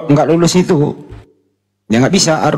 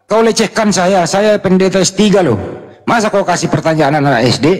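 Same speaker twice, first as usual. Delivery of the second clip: imitating an angry pastor, pitched up; mock angry pastor; 4 semitones higher than usual. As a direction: play the offended pastor, indignant. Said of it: "Marah dia". (meniru pendeta yang marah, nada tinggi)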